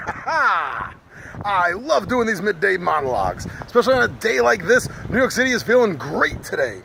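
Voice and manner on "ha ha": laugh. Real, not acted. Laughs after his big intro.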